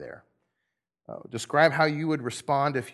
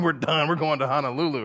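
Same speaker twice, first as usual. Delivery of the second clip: giddy worker; 3 semitones higher, 4 dB louder than usual. Acted. Six o'clock workers thinking they'll retire early, giddy. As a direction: play someone thrilled about a windfall.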